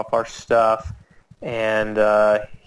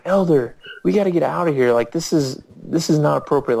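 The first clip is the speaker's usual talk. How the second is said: raised pitch, urgent appeal; urgent protest; 4 semitones higher, faster than usual. Retold or imitated. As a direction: replay an alarmed objection to a companion. Urging companion to leave, retold.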